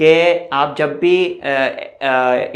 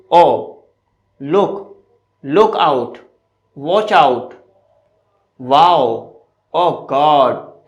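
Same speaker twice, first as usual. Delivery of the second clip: exclamations; 3 dB louder, much slower than usual. Shown as a demonstration. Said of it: "For example".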